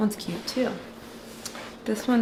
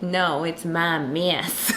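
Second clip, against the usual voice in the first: mock Texas accent; 3 semitones lower, slower than usual. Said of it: "his, his accent, I feel like it's fake".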